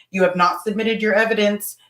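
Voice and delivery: re-enacted scolding, dropping in pitch and volume; nasty reprimand. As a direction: scold them in measured, emphatic phrases. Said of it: "I was nasty".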